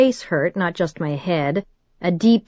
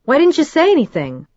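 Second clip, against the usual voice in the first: mild anger; 9 semitones higher, 4 dB louder than usual. A narrator's reading. Annoyed at silent Trent.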